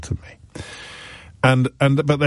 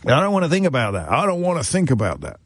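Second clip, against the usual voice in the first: high, fast mock panic; high anxious refusal; panicked denial; 6 semitones higher than usual. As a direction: rattle it off, covering his ears. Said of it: "what happens when he gets a bigger yacht".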